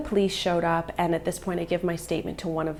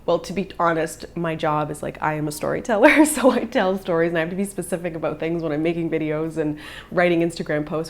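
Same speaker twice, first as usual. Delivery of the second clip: laughing; 5 dB louder than usual. Retold or imitated. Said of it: "I had to laugh and go".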